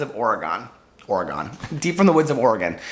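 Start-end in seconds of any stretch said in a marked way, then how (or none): 1.1-1.5 a sudden much lower, eerie drop on Oregon; spooky low. Acted. Repeats the name in spooky tone. 1.8-2.8 louder, ominous storybook delivery; mock spooky. Re-says signature dramatically.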